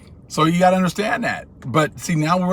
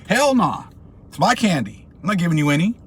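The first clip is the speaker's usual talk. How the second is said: smug refusal; 3 semitones higher than usual. Retold or imitated. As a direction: brush him off like a spoiled kid. Greedy kid refusing again.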